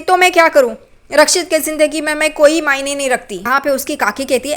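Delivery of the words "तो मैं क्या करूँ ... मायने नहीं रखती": higher, louder hurt complaint; upset girl. Retold or imitated. Girl complains to aunt about Rakshit, hurt. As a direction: vent the hurt to her aunt.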